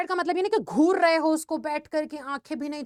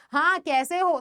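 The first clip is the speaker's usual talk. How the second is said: curt "हाँ, कैसे हो?" with a dismissive falling "हाँ"; offhand, impolite "हाँ, कैसे हो?"; rude greeting; slower than usual. Shown as a demonstration. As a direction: ask as if you couldn't care less. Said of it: "ये तो बहुत ही गलत लगेगा".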